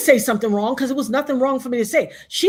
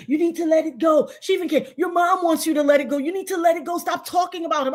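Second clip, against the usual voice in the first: mimicked nagging; 5 semitones higher than usual. Mimicking woman urging her to drop it.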